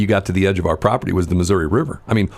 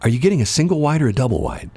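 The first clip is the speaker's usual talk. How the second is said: snooty tease; 7 semitones higher than usual. Retold or imitated. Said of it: "he smiles and he says".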